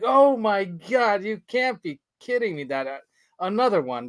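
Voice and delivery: a touch of retold panic; mock dismay. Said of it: "And I'm like".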